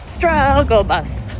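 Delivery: high, slow drawn-out wail; mock lament. Real, not acted. Tired runner whining to viewers, slow and high. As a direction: wail it like a dramatic complaint. Runner complaining mid-run.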